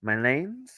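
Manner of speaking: "Lens" with an ay sound, like "laymz"; trying another pronunciation. Shown as a demonstration. Vlogger working out an accented name, "Lens" said with ay, questioning. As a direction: stretch "Lens" into a rising "layns". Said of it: "That was A, accent".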